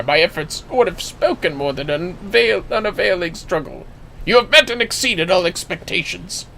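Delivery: a hint of a rueful veteran conceding defeat; old guild master voice. Old guild master admitting his students beat him, lightly voiced.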